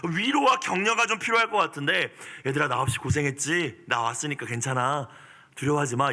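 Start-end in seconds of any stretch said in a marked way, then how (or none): 2.5-6.1 gentle comfort. Retold or imitated. Jesus consoling the weary disciples, gentle reassurance. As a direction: comfort them kindly. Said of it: "이게 아니라".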